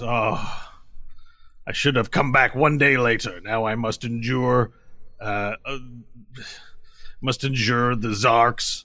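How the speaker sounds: groaning, slow reluctant resignation; Brahmi. Acted. Lizard warrior must endure dinner with the Zarks, groaning resignation. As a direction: draw it out wearily, then sigh. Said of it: "Brahmi kinda groans and goes".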